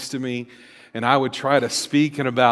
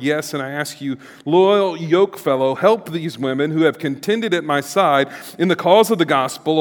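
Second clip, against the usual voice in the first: fervent Bible reading, rising and louder in the lists; scripture reading; 2 semitones higher, 4 dB louder than usual. Acted. Pastor reading Philippians four to the congregation, fervent. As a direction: proclaim the passage to the church.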